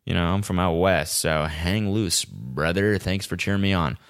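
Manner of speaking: a quiet laid-back surfer bro; quiet cool-guy talk to a fan; imitating cool runner. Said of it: "I was like".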